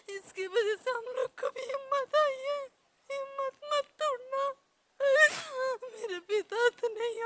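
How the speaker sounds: tearful, high and loud, voice breaking with sobs; crying. Real, not acted. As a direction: fight back real tears while telling it. Retelling tearful plea to guru.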